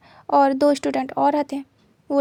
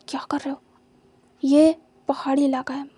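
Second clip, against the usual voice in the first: hushed scold. Acted. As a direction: scold him under your breath. Teacher hushes student at night. (फुसफुसाकर डांटना)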